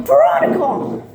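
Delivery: high call of Veronica across the stage; mock yell of a name. Judy shouts after her friend, a high mock call.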